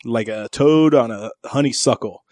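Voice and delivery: slow, flowery lovesick letter voice; mock yearning. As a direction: read it like a yearning old love letter. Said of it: "It's like".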